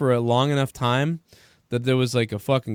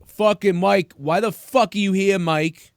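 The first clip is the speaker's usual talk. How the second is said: raised, high-pitched mock aggression; imitating angry confrontation; 7 semitones higher, slower than usual. Teller imitates a bar stranger accosting him as Mike, mock angry. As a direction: get in his face as the angry stranger.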